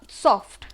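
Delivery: सॉफ्ट as one loud, unbroken beat; one firm syllable on सॉफ्ट. Shown as a demonstration. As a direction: say सॉफ्ट whole, in a single go. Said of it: "एक ही बार में पूरा बोला गया".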